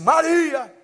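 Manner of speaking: emphatic read-out call; changed tone, calling out. Acted. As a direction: call the name out from the text. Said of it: "ele muda o tom de voz".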